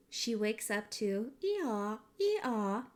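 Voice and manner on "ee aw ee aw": donkey bray. Retold or imitated. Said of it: "and children yelling".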